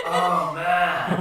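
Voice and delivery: stretched surfer-dude exclamation; Finding Nemo turtle. Acted. Player suggested cartoon turtle, mellow dude voice. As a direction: mellow stoner sigh of words. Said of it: "You should be the turtle from".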